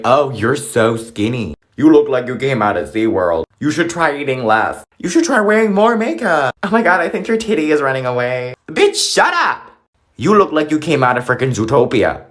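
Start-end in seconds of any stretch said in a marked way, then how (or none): 0.0-8.5 mocking body shamer. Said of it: "saying shit like". 8.7-9.7 high, slow, drawn-out snap back; high mock snap. Comic retort to body shamers, a high slow snap.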